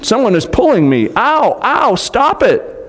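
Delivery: high, fast, frightened yelps; girl pulled by unseen hands, frightened cries. A narrator's reading. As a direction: cry out as something yanks you. Susan pulled by magic.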